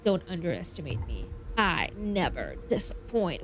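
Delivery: low, confident gladiator line; understated badass challenge; tough gladiator. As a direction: say it low and self-assured. Voicing tough gladiator reply option.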